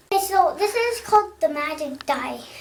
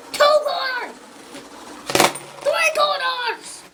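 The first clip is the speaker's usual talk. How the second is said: excited high counting; 10 semitones higher, slower than usual. Acted. Counting magic quarters.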